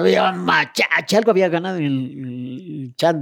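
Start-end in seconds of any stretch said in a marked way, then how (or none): 0.0-1.2 put-on drunk cheer. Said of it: "venía gritando".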